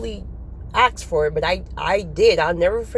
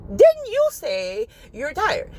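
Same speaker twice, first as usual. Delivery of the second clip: slow, higher, stretched pointed question; God's pointed reply; 7 semitones higher, slower than usual. Retold or imitated. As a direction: drag out "Didn't you say you're tired?" as a knowing rebuke from God. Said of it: "He's like".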